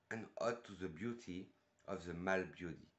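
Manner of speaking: English read out with a French accent. Real, not acted. Reviewer reciting an ode from the perfume blurb, French-accented English. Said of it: "mon superbe accent anglais depuis le début".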